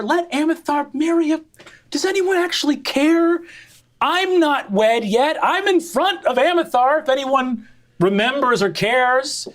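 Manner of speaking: high, sarcastic sibling complaint; very high whiny sister voice; indignant sister Safria. Acted. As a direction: rant about being passed over.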